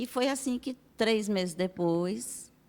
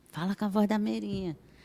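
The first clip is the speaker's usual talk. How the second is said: usual speaking voice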